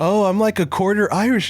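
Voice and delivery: imitated American tourist. Tourist telling the bartender his roots, imitated. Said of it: "one of the guys goes".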